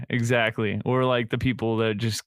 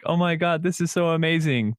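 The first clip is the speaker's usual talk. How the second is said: higher-pitched imitation of awe; mock gushing; 6 semitones higher than usual. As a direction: lightly parody gushing amazement. Imitating gushing news posts.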